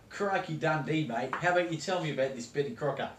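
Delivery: broad ocker Australian accent played for laughs; hammed-up Aussie accent. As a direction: play a cartoon Aussie TV cook. Parody host continues.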